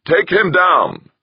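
slow, high, loud slurred bawl. Acted. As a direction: drag the order out, bawling and slurring. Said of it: "the technician's slurred voice bawled".

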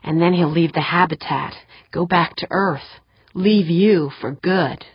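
lightly voiced inner voice; a hint of a taunting inner voice; whispery telepathic voice. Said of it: "said a voice in her mind".

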